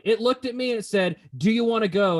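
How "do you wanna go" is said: mock Australian challenge, raised and louder; a spider squaring up with an Australian accent. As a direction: pick a fight in a put-on Australian accent. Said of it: "in an Australian accent".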